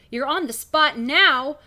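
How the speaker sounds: slow menacing French teacher; French accent. Acted. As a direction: pressure them. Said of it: "Really committing to that accent".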